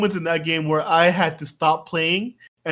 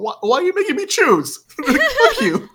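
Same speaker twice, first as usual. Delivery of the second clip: exasperated yell; 4 dB louder than usual. Retold or imitated. Frustrated at game choice.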